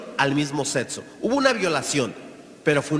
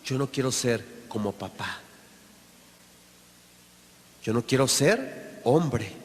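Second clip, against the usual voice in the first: put-on hurt child; 6 semitones lower, 4 dB quieter than usual. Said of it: "el niño igual".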